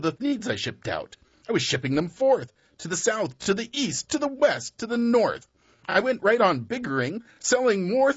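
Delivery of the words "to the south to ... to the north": rising list. A narrator's reading.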